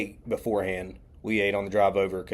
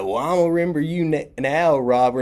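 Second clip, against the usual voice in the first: loud, high, teasing retort; mock-menacing relief; 7 semitones higher, 6 dB louder than usual. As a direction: act out a playful threat after a prank. Stranger's relieved mock threat.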